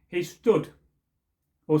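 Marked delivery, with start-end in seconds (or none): 1.7-1.8 measured, slow ballad recitation; storyteller reading a folk poem aloud. A narrator's reading. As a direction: recite it like an old Scots ballad. Reads the old Scottish poem.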